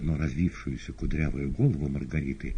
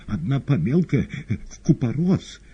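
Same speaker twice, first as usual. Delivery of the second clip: terrified babble; 9 semitones higher, 4 dB louder than usual. Acted. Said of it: "в ужасе понёс околесицу".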